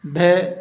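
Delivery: بھے drawn out slowly with a breathy b; slow aspirated bhe. Shown as a demonstration. Teacher slowly modelling بھے for the class. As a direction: stretch بھے, b with a puff of air. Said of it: "کہ بھے".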